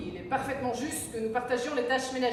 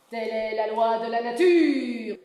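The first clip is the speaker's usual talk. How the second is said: laughing; 9 dB louder than usual. Pretend. Loud laughing declaration.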